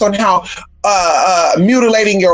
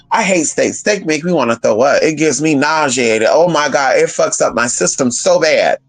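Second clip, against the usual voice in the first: lower-pitched disgusted alter voice, not much changed; other personality; 6 semitones lower than usual. Retold or imitated. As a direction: drop low and sound repulsed by steak. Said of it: "And then the other personality".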